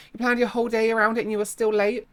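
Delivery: high, fast disbelief; incredulous. Real, not acted. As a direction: ask it in disbelief. Incredulous at reviewer.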